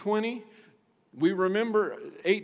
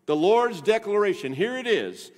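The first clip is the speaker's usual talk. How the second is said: normal talking voice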